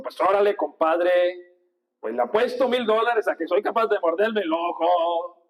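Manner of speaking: light chilango Mexican twang, mock bet; playful chilango Mexican voice; hint of a Mexico City accent. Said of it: "el de los mexicanos chilangos sí lo sé, eh, eh, eh, imitar".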